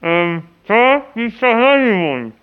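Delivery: mumbling through dental packing; mouth full. Pretend. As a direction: talk with gauze in your mouth. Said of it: "Ich hab eine Tamponade im Mund".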